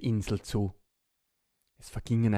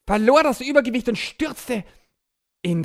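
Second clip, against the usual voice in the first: dramatic narration; 11 semitones higher, 11 dB louder than usual. A narrator's reading. Narrated fall, voice jumps.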